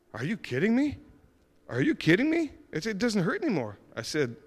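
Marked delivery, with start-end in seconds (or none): 0.1-1.0 higher, eager disbelief; excited disbelief. Retold or imitated. Cashier realizes her toe is healed, excited. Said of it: "And she was all excited". 1.7-3.8 peak of the excitement, almost squealing; excited. Retold or imitated. Cashier marvels to the speaker that pain is gone, thrilled. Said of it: "And she was all excited".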